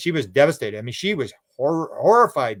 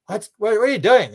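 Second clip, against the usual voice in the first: higher, bewildered asking what's going on; puzzled higher voice at the TV screen; baffled woman; 7 semitones higher, 4 dB louder than usual. Retold or imitated. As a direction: squeak out a confused question. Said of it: "she's going".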